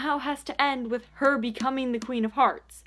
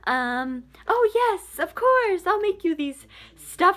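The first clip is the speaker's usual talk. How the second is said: high, put-on mock voice of a dithering girl; mocking Kath; 4 semitones higher than usual. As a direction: lampoon her eager yes-saying in a high voice. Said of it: "she's like".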